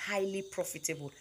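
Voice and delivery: emphasis on "highly" before "profitable"; stress on highly. Real, not acted. Telling beginner snail farmers it pays, stress on "highly". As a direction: lean on the word "highly". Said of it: "Emphasis on highly".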